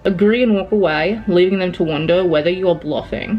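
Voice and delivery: reading aloud in a put-on British accent; measured, lightly assumed British accent. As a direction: read the quiz like a British storyteller. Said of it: "I don't know why I'm doing an accent".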